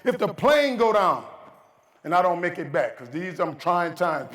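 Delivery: husband insisting to his wife. Retold or imitated. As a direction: lay it down heavy, word by word. Husband answers worried wife.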